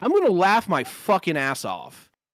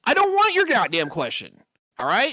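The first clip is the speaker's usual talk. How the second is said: pitched up, cutting him off hard; angry outburst; 6 semitones higher than usual. Real, not acted. Fed up with a friend's interruptions, angry raised voice. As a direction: snap at the guy who keeps interrupting. Heated argument over interruptions.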